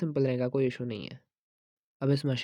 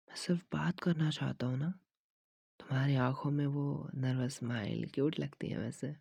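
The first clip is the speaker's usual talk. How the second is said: ordinary delivery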